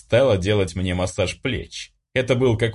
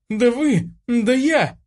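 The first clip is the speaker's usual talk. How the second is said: high, choked, indignant splutter; splutter, lost for words; furious girl spluttering at the family; sputtering outrage; slower than usual. Acted. Sputtering, she jumps up.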